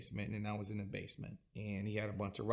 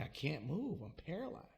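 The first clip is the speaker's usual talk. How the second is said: panicked; 5 semitones higher, 5 dB quieter than usual. Retold or imitated. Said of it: "I'm like".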